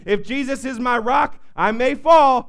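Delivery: the preacher claims victory before the congregation; preaching. Acted. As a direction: shout the victory to the church. Rising preaching climax.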